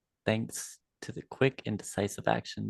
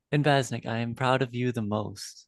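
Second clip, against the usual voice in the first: proud declaration; 4 dB louder than usual. Acted. Proud speech to Vaznik.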